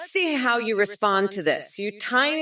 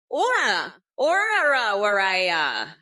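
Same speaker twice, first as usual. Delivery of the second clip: Star Platinum impression. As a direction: shout the rapid punches like a JoJo fighter. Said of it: "you want me to do an impression of Star Platinum".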